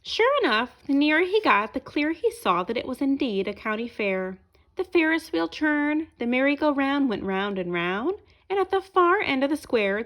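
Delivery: lively storybook narration; reading to children. A narrator's reading. Reading a picture book aloud to children, lively storyteller voice. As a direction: tell it brightly to young listeners.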